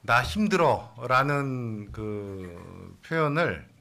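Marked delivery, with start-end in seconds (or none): 0.0-1.9 slow emphatic quote. Shown as a demonstration. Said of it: "경상도 버전으로 하면".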